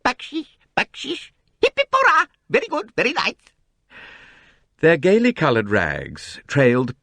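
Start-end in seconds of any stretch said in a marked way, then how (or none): 0.0-3.3 much higher, pleading little voices; plaintive begging children. A narrator's reading. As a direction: whine for a tip while tagging along. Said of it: "murmuring plaintively".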